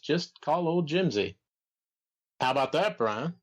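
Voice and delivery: Jim Barnett impression. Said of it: "sound a little bit more like Droopy Dog".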